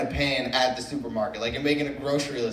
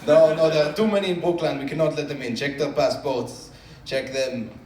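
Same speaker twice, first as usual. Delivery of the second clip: mock stern guard; 5 dB louder than usual. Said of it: "He's like".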